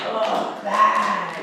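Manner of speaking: groaned "Ugh, bad"; displeased bad. Shown as a demonstration. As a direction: act out feeling bad. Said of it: "If you're saying bad".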